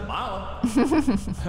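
slow stretched word; drawn-out. Pretend. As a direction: stretch it out slowly. Drawn-out playful repeat.

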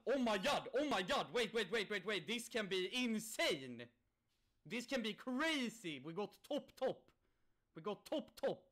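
shrieking jackpot winner. Real, not acted. Reacting to a big slot bonus.

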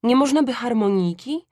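put-on child begging with sudden excitement; excited cry. A narrator's reading. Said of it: "krzyknął, podnosząc czerwone zawiniątko".

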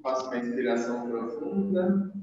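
soft, measured yoga-teacher guidance; guided breathing meditation. Acted. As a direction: guide a breath softly, leaving long pauses. Leads opening breathing meditation.

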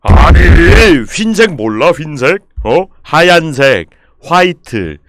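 높고 크게 다그치기; 못 알아듣는 상대를 몰아붙이듯 외치기; 답답한 호통. Real, not acted. Loudly demands they know white. (답답해서 버럭)

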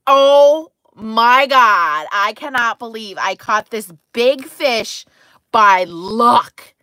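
loud, slow amazed gush at the catch; mock stunned joy; retold disbelief. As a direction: replay the moment of disbelief, loud and stretched out. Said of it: "I was like".

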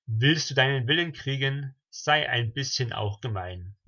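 measured, rhythmic verse with pauses between lines; poem recitation. Acted. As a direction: recite a rhyming party poem, clearly projected.

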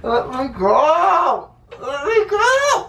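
loud, laughing plea; laughing shout. Real, not acted. Play-wrestling, shouting and laughing.

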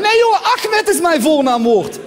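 lightly voiced street guy; a hint of street slang; moroccan dutch street. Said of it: "Hij zei".

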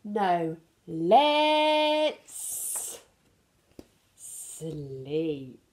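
a lazy sheep yawning it out; lightly voiced sleepy sheep, fading away. A narrator's reading. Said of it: "lazy sheep says".

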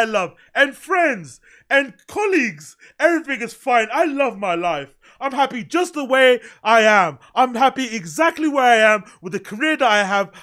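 mock contentment, insistently listed; pretending everything's fine. Man insisting he loves his life, mock contentment. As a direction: act too keen to prove you're happy. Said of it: "trying for a long time to act like".

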